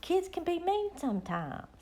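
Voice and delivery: talking through a yawn; stretched mid-yawn words. Real, not acted. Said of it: "Oh, sorry, I was a-yawning".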